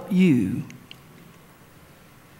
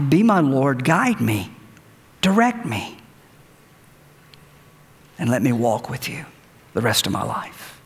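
prayer; 2 semitones lower than usual. Real, not acted. Leading a sinner's prayer.

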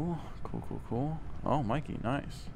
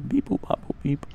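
beep boop imitation; 8 semitones higher, 3 dB quieter than usual. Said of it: "Simon Says one".

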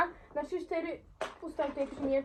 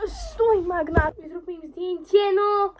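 loud urgent call; 4 semitones higher, 10 dB louder, slower than usual. Real, not acted. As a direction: call across the room. Calling out to sister.

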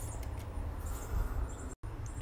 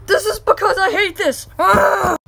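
crying, louder yell; tantrum shout; 3 semitones higher, 4 dB louder than usual. Acted. Boy yelling at his dad while smashing the game, crying shout. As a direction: scream it out in a fit.

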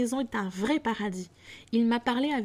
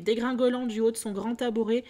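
ordinary delivery

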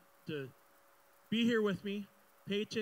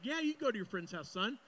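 lightly voiced dad granting permission, pitched up; a hint of a genial dad, raised pitch; agreeable dad; 5 semitones higher than usual. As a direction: play dad saying yes, a little higher. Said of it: "anytime I wanna go to my friend's house".

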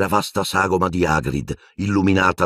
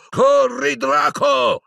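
high, urgent shout; yelled order; much slower than usual. A narrator's reading. Piton urging Draco to run, yelling. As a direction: yell for him to flee. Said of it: "che urlò".

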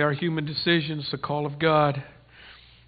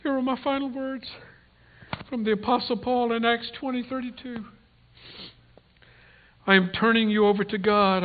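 earnest pulpit reading of scripture; scripture blessing; 2 semitones higher than usual. Acted. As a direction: read it out as a solemn sending-off. Reads a farewell blessing from scripture.

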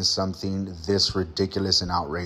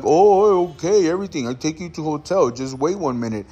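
placating driver; 4 semitones higher than usual. Retold or imitated. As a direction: stall him with fake reassurance. Driver voiced again, placating.

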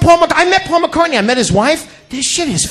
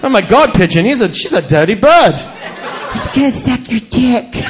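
a lightly voiced English man; mock posh gasp; a hint of an English man, shocked; slower than usual. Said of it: "just to hear the voice".

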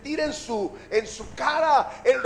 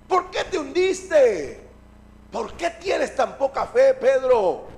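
slow, stretched-out reproach; mild acted rebuke; 4 dB louder, slower than usual. Jesus rescuing Pedro from the water, slow mild rebuke. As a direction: chide him slowly, question after question.

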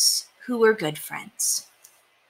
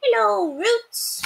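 short mouse; much slower than usual. A narrator's reading.

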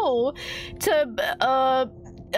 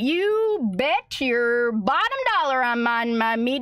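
usual speaking voice

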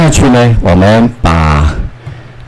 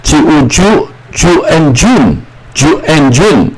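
slow blending; 6 semitones higher, slower than usual. Shown as a demonstration. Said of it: "N就鼻音".

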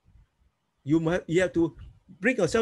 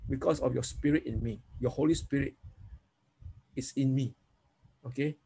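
confident prayer; 3 semitones lower than usual. Shown as a demonstration. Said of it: "turn it around and say".

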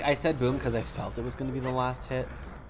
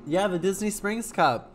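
raised voice; 7 semitones higher, 7 dB louder than usual. Real, not acted. After spice fit, loud and high.

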